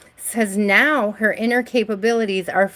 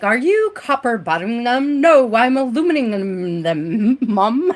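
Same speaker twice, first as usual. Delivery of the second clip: light mock British accent for an acting drill; 3 semitones higher, 3 dB louder than usual. Streamer recalling her college acting class drill, in a light British accent. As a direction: play the posh British mum line, crisp and articulated. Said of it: "a little British tang to, twang to it".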